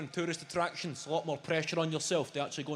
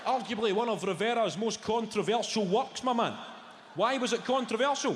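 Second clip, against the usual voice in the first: gloating know-it-all; 8 semitones higher, 4 dB louder than usual. Retold or imitated. Showing off art knowledge.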